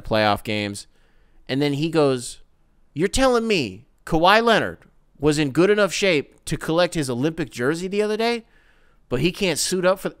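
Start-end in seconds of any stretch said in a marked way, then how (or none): 2.9-10.1 mock outrage at a star sitting out; a hint of a heated TV host; imitating heated pundit. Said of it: "guy was dead ass fucking serious".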